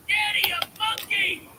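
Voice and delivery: put-on very high, loud child's shriek; screaming child. Dad imitates his daughter on her chair, screaming child voice. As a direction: shriek it out like an excited little girl. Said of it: "She's screaming".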